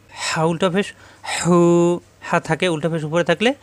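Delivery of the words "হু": হু with the u held long, two beats; stretched syllable. Shown as a demonstration. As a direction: draw out হু for one alif. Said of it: "এক আলিফ পরিমাণ টানতে হবে".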